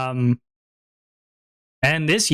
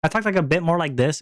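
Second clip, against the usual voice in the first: a bit higher, lightly put-on femboy-esque voice; 3 semitones higher than usual. Shown as a demonstration. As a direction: raise the voice slightly, femboy-style. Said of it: "It was very, very femboy-esque".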